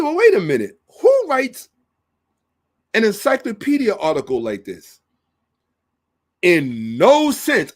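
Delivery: high, loud, outraged retort; indignant disbelief. Retold or imitated. Lecturer scoffing at the encyclopedia, high and loud. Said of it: "So I said".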